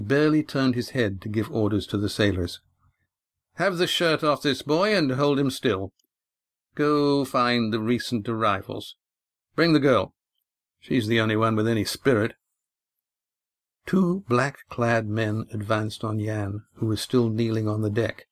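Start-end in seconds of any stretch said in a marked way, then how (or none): 3.5-12.3 lightly voiced master ordering his men; commanding captain. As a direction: bark orders to sailors offhandedly. Mufrid giving orders.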